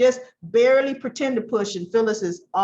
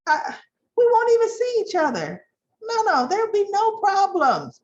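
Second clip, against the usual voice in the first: higher, pleading, near tears; pleading Phyllis; 7 semitones higher than usual. Retold or imitated. Phyllis begging Summer for the job, high and tearful. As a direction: beg with a cracking voice. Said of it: "What did she say?".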